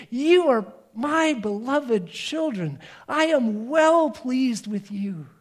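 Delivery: slow, loving words from a proud father; gentle slow blessing; tender fatherly voice. Acted. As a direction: speak it slowly, like a father blessing his child. God the Father speaks to believers.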